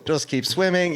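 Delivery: laughing. Retold or imitated. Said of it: "I'm like, I'm like".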